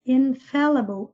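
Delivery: "Infallible" with an open E in FAL; careful pronunciation. Shown as a demonstration. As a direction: model "Infallible", stressing its second syllable. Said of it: "prestem atenção na pronúncia".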